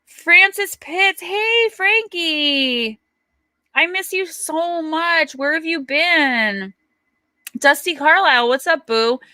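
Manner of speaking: high, very slow sing-song hello; drawn-out greeting. Real, not acted. Streamer greets a long-missed viewer, high and drawn out. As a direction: stretch each word out to greet a dear friend.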